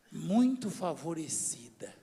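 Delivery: slow quoting. Acted. Slowly quotes the angel's greeting.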